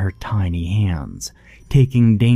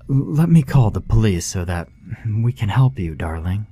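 gentle suggestion; 3 semitones higher, 3 dB louder than usual. Acted. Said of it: "she suggested".

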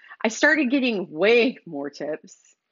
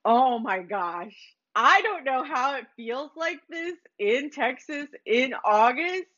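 grateful man. Pretend. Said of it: "that person was like".

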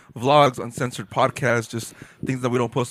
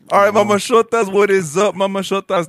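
podcast intro; 4 semitones higher, 5 dB louder than usual. Acted.

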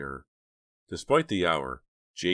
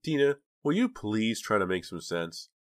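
higher-pitched scolding plea; exasperated; 6 semitones higher than usual. A narrator's reading. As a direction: plead with a daughter who makes no sense.

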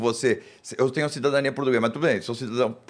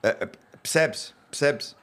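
European Portuguese accent; 3 semitones lower than usual. Shown as a demonstration. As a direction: lightly imitate a Portugal accent. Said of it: "eu falo com as palavras de Portugal".

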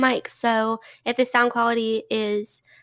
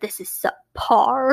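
slow disdain; much slower than usual. Retold or imitated. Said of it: "He's like".

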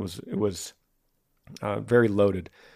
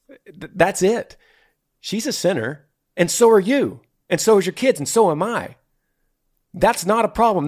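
higher-pitched, insistent preacher's delivery; emphatic preaching; 5 semitones higher, 4 dB louder than usual. Real, not acted. Host telling a listener everyone is born a sinner, emphatic preaching. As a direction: drive each point home, pitched up and punched.

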